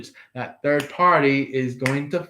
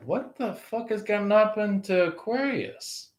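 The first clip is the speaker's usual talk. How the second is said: mocking third party; 7 semitones higher, 4 dB quieter than usual. Third party voiced, worried.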